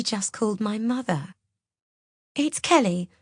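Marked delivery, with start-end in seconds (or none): 2.3-3.1 higher-pitched, as if in tears; tearful gulped announcement; fake tearful. A narrator's reading. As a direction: pretend to be close to tears. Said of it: "making it sound as if she's in tears".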